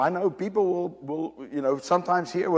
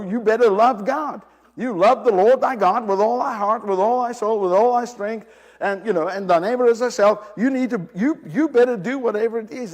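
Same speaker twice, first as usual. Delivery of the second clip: louder insistent commandment; stern preaching; 4 semitones higher, 7 dB louder than usual. Retold or imitated. Preacher recites what his church taught him, loudly. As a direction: drive the law home firmly.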